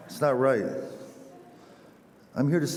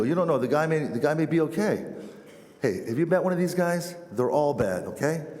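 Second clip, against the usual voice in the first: higher-pitched, acted back-and-forth protest; heated arguing; 5 semitones higher than usual. Two men in the pew argue over missionaries, mock-heated.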